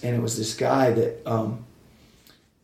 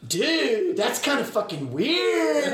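higher, laughing, drawn-out disbelief; 11 semitones higher, slower than usual. Retold or imitated. Rock singer told about fan's tattoo, laughing disbelief. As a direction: giggle through the words, weirded out. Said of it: "And he goes".

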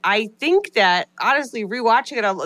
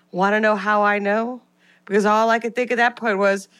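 dramatic story reading. Acted. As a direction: read it like a creepy confessional tale. Reads a spooky listener review.

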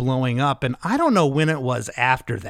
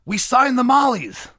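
excited; 8 semitones higher than usual. Retold or imitated. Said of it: "comes up all excitedly".

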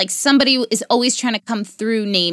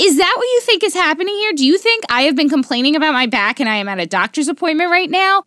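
incredulous retort; 6 semitones higher, faster than usual. Retold or imitated. Retorting to mom on phone.

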